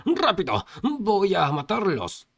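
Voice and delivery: loud, high commanding yell; urgent acted shout; shouted order. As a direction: bellow the order, stretching the second part. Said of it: "le ordenó gritándole".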